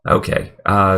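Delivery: deep, nasal voice from a cold; nasal sick voice. Real, not acted. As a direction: talk through a stuffy, sick nose. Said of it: "sorry for the deep nasally voice".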